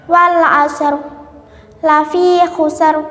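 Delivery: thick final r in "asr" and "khusr"; "wal asr" ending on a dark, heavy r; tafkhim. Shown as a demonstration. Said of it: "ro yang dibaca tafkhim".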